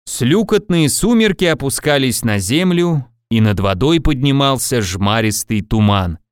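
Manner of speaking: mildly solemn storytelling; solemn, with expression. A narrator's reading. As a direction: recite nonsense words in all seriousness. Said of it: "торжественно с выражением". (торжественно, с выражением)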